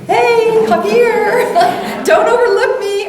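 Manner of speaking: put-on high, loud child's voice with giggles; little child calling. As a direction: play a bold toddler wanting attention.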